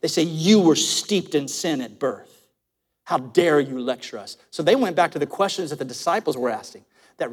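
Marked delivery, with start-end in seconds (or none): 0.2-4.4 lowered, hateful condemnation. Acted. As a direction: pour scorn on him, drawing out the words. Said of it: "listen how hateful they are".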